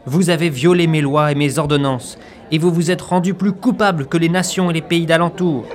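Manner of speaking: solemn prophetic proclamation; preaching. Acted. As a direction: thunder it like an Old Testament prophet.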